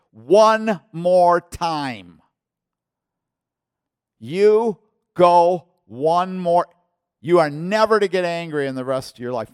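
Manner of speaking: thundering ultimatum, loud and high; slow, hard-hit words as a final judgment; the Lord. Retold or imitated. The Lord's final warning acted out.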